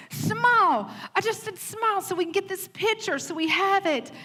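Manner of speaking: high, insistent repeat while pinching; firmer mom. Retold or imitated. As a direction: press the child harder to smile, half-joking. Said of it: "We're like".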